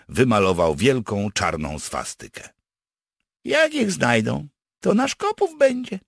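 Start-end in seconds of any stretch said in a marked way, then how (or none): 3.4-6.0 high-pitched, pleased with himself; satisfied. Acted. Partisan pleased with his plan to blame others, satisfied. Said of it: "powiedział z zadowoleniem".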